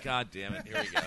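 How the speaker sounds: exasperated sigh of a line; fed up, here we go again; frustrated. Retold or imitated.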